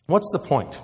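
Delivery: put-on a touch of whiny teenager; lightly whined, teenage sulk. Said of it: "in my best teenage whiny voice".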